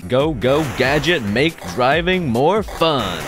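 slow, loud announcer parody; hammed-up commercial read. Quoting an ad jingle voice.

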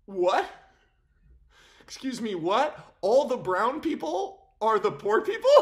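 a loud, incredulous "what?"; mock disbelief. Vlogger reacting to the Dune casting, in mock disbelief. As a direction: sound floored by what you just saw.

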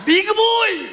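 lightly voiced shogun barking orders; a hint of a samurai lord shouting at the big boy; Lord Toranaga. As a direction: call out like a stern warlord. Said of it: "reminded me of Lord Toranaga from Shogun".

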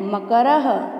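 मकरः slowly, final h sounded; visarga as ha. Shown as a demonstration. Teacher modelling the word for practice, visarga as ha. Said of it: "एक एक करके इन शब्दों का उच्चारण करती हूँ".

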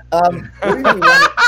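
high-pitched laughing words; laughing hard, barely getting words out. Real, not acted. Friend laughing at the pen story, words through laughter.

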